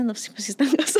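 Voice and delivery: laughing quote. Retold or imitated. Laughing, quoting herself.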